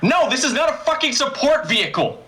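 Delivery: high-pitched exasperated denial; indignant outburst. Acted. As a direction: lose your cool despite the breathing. Acted outburst after calming breaths.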